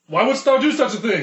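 Thor voice. Acted. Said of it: "I'm gonna be Thor".

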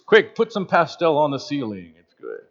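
put-on a hushed, prim British accent, lightly done; mock British angels. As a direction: murmur it like a polite English churchgoer, a touch hammed-up. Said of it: "I don't think they're all going to be British".

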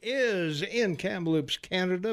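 brisk, continuous morning-radio station intro; radio announcer. Acted. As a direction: read the time and host intro like a DJ.

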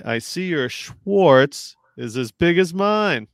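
Spaceballs quote. Retold or imitated. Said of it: "It's Spaceballs".

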